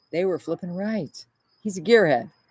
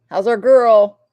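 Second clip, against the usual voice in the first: husband's cute text; 5 semitones higher, 11 dB louder, slower than usual. Retold or imitated. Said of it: "Meaning our puppy".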